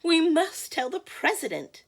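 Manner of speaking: high, loud urgent cry; frantic high-pitched hen; clucking hen. Acted. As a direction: cluck it out insistently. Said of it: "clucked Chicken Licken".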